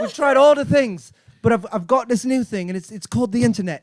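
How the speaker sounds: lightly acted English office pitch; a hint of earnest English staffer; English employee pitching. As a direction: plead your case to the board, mildly English. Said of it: "He goes".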